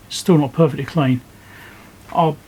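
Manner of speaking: ordinary talk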